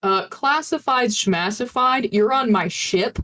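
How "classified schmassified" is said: slow, scoffing high retort; dismissive. Acted. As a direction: brush it off mockingly.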